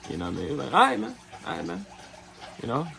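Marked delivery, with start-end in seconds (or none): 0.7-1.1 squeaky, high-pitched mock okay; mimicking him in a high voice; high mock reply. Imitating the hustler accepting the no in a high squeak. 1.5-1.9 low, soft, resigned okay; low quiet reply. Retold or imitated. Imitating the hustler's deflated reply, low and soft. Second take, dropped.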